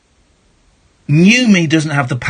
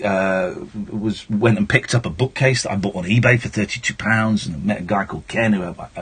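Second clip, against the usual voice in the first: low, casual, sincere talk; out of character; 6 semitones lower than usual. Real, not acted. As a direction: chat plainly as the real person behind the act. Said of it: "let's come out of character for a second".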